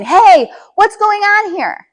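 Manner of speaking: high, loud and slow alarmed shout; a parent barging in with a panicked yell; hysterical yell. Shown as a demonstration. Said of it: "We have caught their hysteria".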